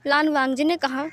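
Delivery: ordinary delivery, nothing marked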